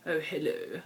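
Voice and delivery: a light hammed-up posh English greeting; mock posh British. Vlogger mocking how Americans think Brits talk, light posh voice. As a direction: lightly send up a posh twat saying hello. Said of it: "we all talk like this".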